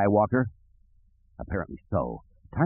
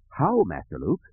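high, prim and fretful robot; nervous, proper protocol droid; fussy droid voice; 3 semitones higher than usual. Acted. Droid asks.

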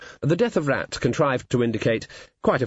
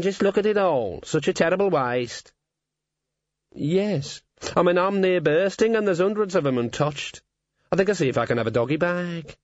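gruff talking raven; croaky bird voice; raspy cawing crow; 2 semitones higher than usual. Acted. Raven talks, belching.

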